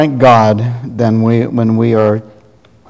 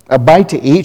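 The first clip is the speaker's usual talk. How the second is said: growled; 3 semitones higher than usual. Acted. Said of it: "she growled".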